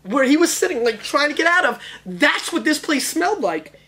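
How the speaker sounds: put-on high, loud, excited kid shout; Goonies Chunk. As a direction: yell it like Chunk calling friends.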